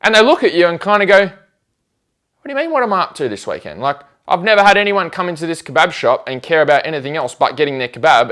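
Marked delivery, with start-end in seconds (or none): 1.2-3.8 baffled shopkeeper. Retold or imitated. Shop worker baffled by question.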